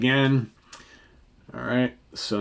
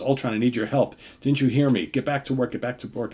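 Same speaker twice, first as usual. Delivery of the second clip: slightly higher, insistent acted appeal; mildly urgent demand; 3 semitones higher than usual. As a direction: press for help with light impatience. Voicing Ant-Man's urgent demand.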